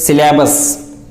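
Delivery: SYLLABUS with an open a, "si-LA-bus"; mispronunciation. Shown as a demonstration. Teacher shows most speakers' error, syllabus mispronounced "si-LA-bus". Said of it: "wrongly pronounce that word as".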